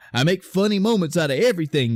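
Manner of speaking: lightly hammed-up funny guy; super jokey. Mocking the hero as the dub plays him, jokey. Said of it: "he wasn't a super jokey".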